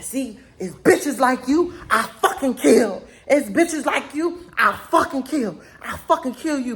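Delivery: mock threat, giggling through it; laughing through his threat. Retelling the date's threat to her friends, laughing. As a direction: quote the threat while cracking up.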